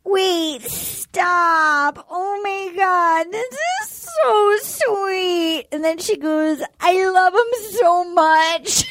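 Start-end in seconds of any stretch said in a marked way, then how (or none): 0.0-5.7 slow, drawn-out sappy imitation; mock gushing. Acting out a gushing suitor. 6.8-8.8 drawn-out weepy imitation; mock tearful. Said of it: "She starts crying".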